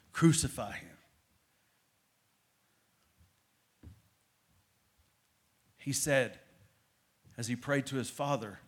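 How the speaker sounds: hushed crucifixion story from the pulpit; hushed sermon telling. Acted. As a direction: draw them in, almost under the breath.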